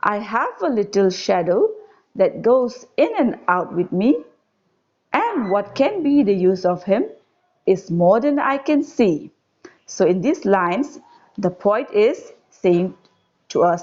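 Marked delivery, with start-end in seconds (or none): 0.0-9.3 put-on measured, lilting verse reading to children; poem recitation. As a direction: recite it line by line with lifted key words. Repeats the stanza aloud.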